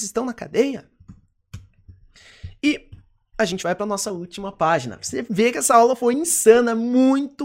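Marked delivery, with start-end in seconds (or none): 5.0-7.5 excited. Real, not acted. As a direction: hype up the packed lesson. Excited wrap-up. (animado com a aula)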